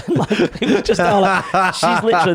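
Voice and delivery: high, loud laughing storytelling; words pushed up high through laughter. Real, not acted. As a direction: crack up while telling the story. Laughing while retelling the manager's reaction.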